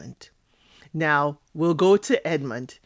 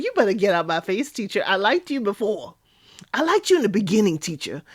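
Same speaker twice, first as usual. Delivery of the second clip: sassy, quick-fire retort to the teacher; hammed-up warning to back off; mock telling-off; 3 semitones higher, faster than usual. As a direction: tell her off in playful indignation.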